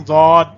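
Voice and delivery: ضاد with a heavy, full d sound and long drawn vowel; correct Arabic letter name. Shown as a demonstration. Teacher shows learners the letter's true pronunciation, heavy drawn-out ضاد. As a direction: say ضاد slowly and firmly, d thick. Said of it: "اصل pronunciation ہے".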